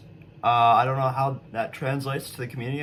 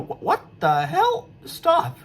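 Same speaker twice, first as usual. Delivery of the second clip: frustrated outburst; 5 dB louder, slower than usual. Real, not acted. Game breaking on him.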